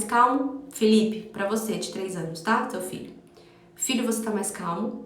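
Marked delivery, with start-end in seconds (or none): 3.8-5.0 softer, gentle but firm question; calm, serene tone. Shown as a demonstration. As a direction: ask it quietly and steadily. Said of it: "um tom de voz mais sereno, mais calmo, mas só que firme".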